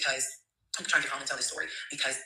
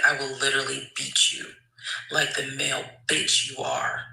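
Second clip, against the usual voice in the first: slow threat. Retold or imitated. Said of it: "I said".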